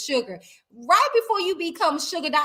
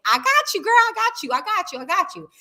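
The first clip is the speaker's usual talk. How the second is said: excited hype; 8 semitones higher than usual. Real, not acted. Hyping up her friend.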